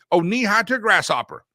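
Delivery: put-on a country elder teasing a small boy; folksy saying, hammed up. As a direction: sound like a grandparent in the South. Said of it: "how many of you".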